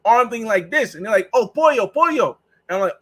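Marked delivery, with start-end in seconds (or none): 1.3-2.4 higher, bright dawning oh pollo; a local catching on; lightly voiced local realizing; mock realization. Locals realize he means chicken.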